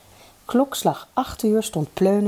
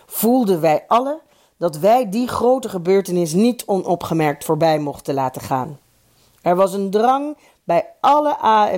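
emphatic, lightly raised oratory; formal speech. A narrator's reading. The chairman resumes his celebration speech, lightly declaimed formal oratory. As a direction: declaim each phrase as a festive address. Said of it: "kon de voorzitter zijn feestrede afsteken".

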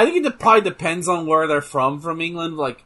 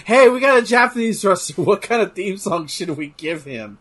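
lightly acted booker, raised and louder opening; mock wrestling booker; 3 semitones higher, 4 dB louder than usual. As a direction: pitch it eagerly, half laughing. Mock booker choosing a theme song.

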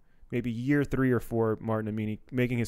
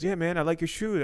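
impression of Dante; 5 semitones higher than usual. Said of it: "That was my impression of Dante Chang".

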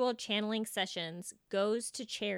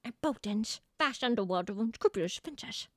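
light Keira Knightley British voice; a hint of British period drama; posh British accent. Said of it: "Give me that underbite".

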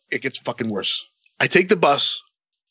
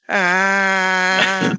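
Terry Funk yell; 4 semitones higher than usual. Retold or imitated. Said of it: "sounded like the Terry Funk noise".

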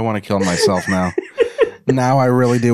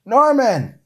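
high long call of his name; calling from off screen; 4 dB louder than usual. Acted. Michelle calls to Norman from off screen. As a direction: call out to him from afar.

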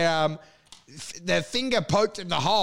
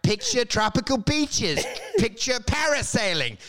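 salesman pitch; 4 semitones higher than usual. Retold or imitated. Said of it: "And I'm like".

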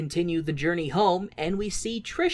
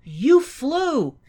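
mock dumb Guido; 8 semitones higher than usual. Mocking Guido's dumb question.

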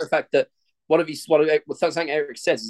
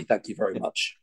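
husky voice; 7 semitones lower, 6 dB quieter than usual. Pretend. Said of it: "I'm already husky".

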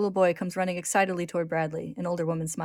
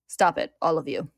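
firm, louder command in a shifted voice; calling out; 7 dB louder than usual. A narrator's reading. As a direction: call them to order, restrained. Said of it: "a new voice calls out".

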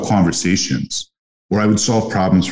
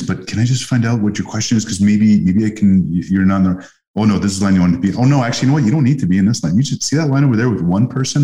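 helpful cheerful salesman; 3 semitones higher than usual. Retold or imitated. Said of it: "So I would go up and I would say".

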